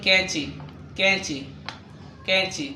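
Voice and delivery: كنشي begun with k, "kainchi"; Urdu pronunciation. Shown as a demonstration. Teacher repeats for learners qaf as kaf, كنشي "kainchi". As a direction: keep كنشي on a k, then a ch. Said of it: "أن القاف ينطق".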